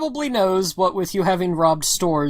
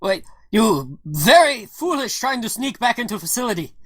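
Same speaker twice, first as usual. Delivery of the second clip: put-on scolding Russian accent; broken English with a Russian accent; 2 semitones higher than usual. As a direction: chide like a Russian comrade. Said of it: "that's the Russian buddy".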